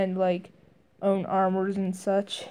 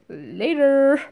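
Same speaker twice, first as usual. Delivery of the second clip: cool exit line; 5 semitones higher, 5 dB louder than usual. Retold or imitated. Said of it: "he goes".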